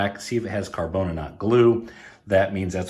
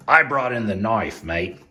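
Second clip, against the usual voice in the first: a bad, half-hearted Australian accent; lightly putting on an Australian accent as a joke; horrible Australian accent; 3 dB louder than usual. Vlogger jokes to viewers in a bad Australian accent. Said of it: "that's a horrible Australian accent".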